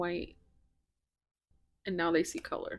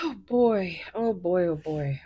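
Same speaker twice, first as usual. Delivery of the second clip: excited then fading; 5 dB louder than usual. Real, not acted. Tarot reader marveling at cards, excitement fading. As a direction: start thrilled, let it settle.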